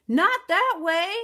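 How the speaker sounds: high, loud, slow panicked giant; giant cries out. A narrator's reading. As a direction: cut her off in alarm. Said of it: "cried the giant".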